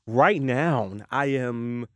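broadcast voice. Shown as a demonstration. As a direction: settle into a presenter's voice. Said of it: "this is my, like, broadcast voice".

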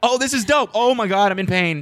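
a hint of a wheezing happy dog; French bulldog voice. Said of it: "That was my French bulldog impression".

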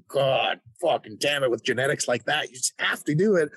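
hammed-up frustrated fan reaction; mock exasperation. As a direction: replay being upset, stretching the swear words. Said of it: "I was a little bit upset".

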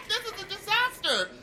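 high, wailing, half laughing. Acted. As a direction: wail it, nearly laughing. Luggage being trashed.

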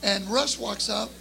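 ordinary talk

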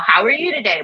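a quick polite "How are you today?"; breezy casual greeting. Retold or imitated. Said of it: "not just, you know".

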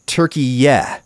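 Turkey-yeah with the last syllable as "yeah"; Turkey-yeah ending on an open eh vowel, like yeah. Retold or imitated. Reading the press release spelling, Turkey-yeah, ending on yeah. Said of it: "phonetic spelling given in the press release said".

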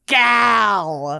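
called out with Minnesota vowels; Minnesotan accent. Pretend. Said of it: "unleash their worst Minnesotan accents".

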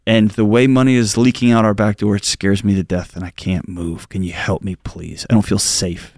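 a frightened wife opening up; scared confession. Retold or imitated. Wife confessing fear to her husband, low and scared.

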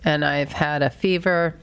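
congested, nasal speech; blocked nose. Real, not acted. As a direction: talk with a stuffy nose. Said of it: "you're holding your nose".

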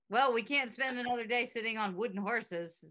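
put-on old-timey announcer voice; lightly clipped vintage radio delivery; 1930s radio announcer. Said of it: "the speaker sounds like a nineteen thirties radio announcer".

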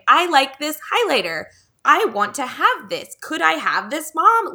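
a hint of a kid asking, rising in pitch; lightly voiced child. Child asking mom for a highlighter, lightly imitated.

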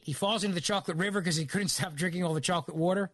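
Philadelphia accent slipping out; strong Philly vowels on water. Real, not acted. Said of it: "It's my Philly accent coming out".

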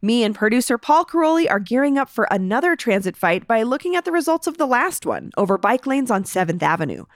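punchy scripted podcast headlines; show intro read. Acted. Host opening the Denver news podcast, scripted intro read. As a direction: announce today's stories with lifted emphasis.

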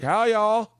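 high-pitched folksy holler; impression of wife's family. Comic doing Christian stand-up in a suit, high folksy impression. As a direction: greet folks in a high, put-on country voice. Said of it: "This is my impression of your family".

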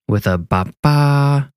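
high, slow ba-ba fanfare; slow mock fanfare. A narrator's reading. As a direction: sing it like a drumroll.

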